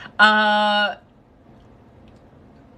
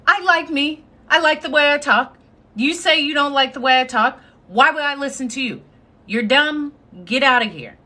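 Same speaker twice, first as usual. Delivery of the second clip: higher, quick, defiant retort to the bullies; sassy comeback; 4 semitones higher, faster than usual. Retold or imitated. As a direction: toss it back at them, fast and cocky. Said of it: "That was my immediate response".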